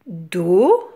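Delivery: "Do" as one drawn-out syllable; syllable demonstration. Shown as a demonstration. Teacher showing children one syllable, "Do" drawn out and separate. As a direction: hold "Do" on its own, carefully. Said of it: "une syllabe".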